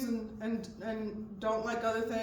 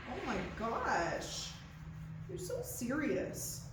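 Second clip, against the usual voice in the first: cooing to horse; 2 semitones lower, 5 dB quieter than usual. Real, not acted.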